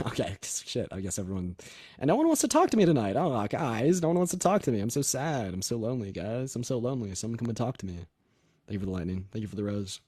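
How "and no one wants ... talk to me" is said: mock self-pity. Streamer pleading with viewers for a caller, mock-pitiful. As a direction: feign being lonely and neglected.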